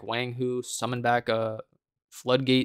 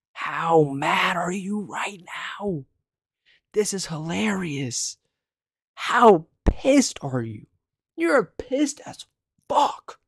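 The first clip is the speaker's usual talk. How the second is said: slow, higher teasing with a cracking laugh; hammed-up taunting, higher and slow; gleeful mocking; 5 semitones higher, slower than usual. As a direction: gloat at the angry opponent, drawn out. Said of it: "I was exaggerating a little bit for a video".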